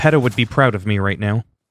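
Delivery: ordinary delivery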